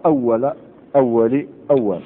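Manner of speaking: أول said three times with a different final vowel each time; three endings demo. Shown as a demonstration. Teacher lists the three vowel endings for students. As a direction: say أول as أولُ, أولَ, أولِ. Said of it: "تقول بهذه الطريقة".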